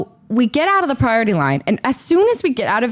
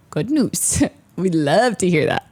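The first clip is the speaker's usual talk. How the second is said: dry sarcasm; 4 semitones lower than usual. Real, not acted. Sarcasm about farthest gate.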